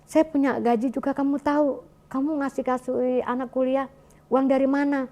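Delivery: a hint of a stern husband questioning money; mock reproach from a worried husband; retold harsh scolding. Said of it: "Maksudnya agak keras gitu kan".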